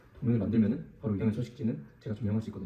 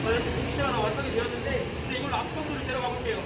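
sped-up voice; 13 semitones higher than usual. Acted. Voice sped or altered.

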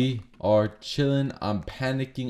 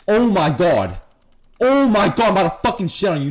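hyped taunt; 5 semitones higher, 5 dB louder than usual. Real, not acted. Fighting an enemy.

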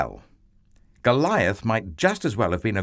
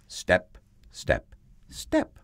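light footsteps; 3 semitones lower, 3 dB quieter, slower than usual. A narrator's reading. Small boy's footsteps towards giant.

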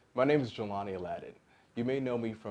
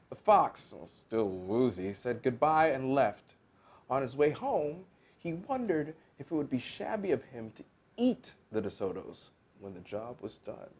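expressive, varied storybook reading; story narration; 3 semitones higher than usual. A narrator's reading. Actor closing the fox's story for listeners, expressive narration. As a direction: shape it like a tale, softening to the end.

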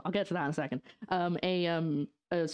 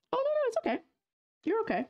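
reassuring; faster than usual. Real, not acted. Reassuring a chat viewer.

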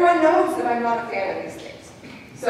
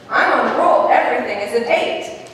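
put-on kid's boast; 5 dB louder than usual. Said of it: "another time he's saying".

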